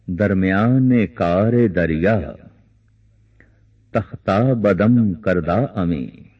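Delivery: slow, drawn-out recital of a couplet; measured poetic quotation in a sermon; verse recitation. Acted. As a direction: recite the verse slowly, stretching the long vowels. Recites a quoted Persian couplet.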